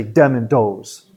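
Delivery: Chicago th turned to hard d; demonstrating a Chicago accent. Shown as a demonstration. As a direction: say DEM and DOES with Chicago d sounds. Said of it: "they talk like this".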